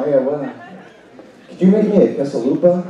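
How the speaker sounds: mock fast-food requests. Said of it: "going to my grandma".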